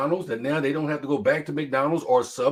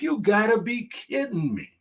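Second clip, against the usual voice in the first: disbelief; 8 semitones higher than usual. Retold or imitated. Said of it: "I'm like".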